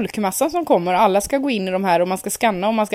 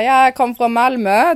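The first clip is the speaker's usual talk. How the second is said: fake Skåne accent; 4 semitones higher, 6 dB louder than usual. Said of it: "På skånska".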